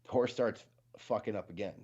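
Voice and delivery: usual speaking voice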